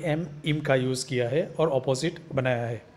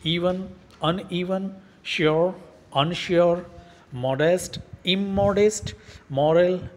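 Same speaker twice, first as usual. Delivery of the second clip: each word said clearly, word then opposite; pronunciation drill. Shown as a demonstration. Teacher reads word pairs so students learn pronunciation, clear drill. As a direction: read the word list out for students to repeat. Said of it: "जिससे आपको pronounce करने में भी समझ आ जाए".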